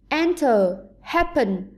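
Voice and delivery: "enter", "happen", each stressed on the first syllable; strong EN in "enter", strong HAP in "happen"; teacher's demo of "enter", "happen", beat up front. Shown as a demonstration. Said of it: "có trọng âm rơi vào âm tiết".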